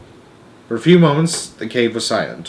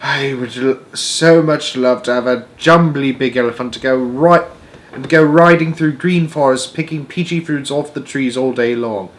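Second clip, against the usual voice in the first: lightly voiced wistful giant, pitched up a little; a touch of dreamy longing in a character voice; BFG; 4 semitones higher, 5 dB louder than usual. The giant confides his elephant wish to Sophie, dreamy.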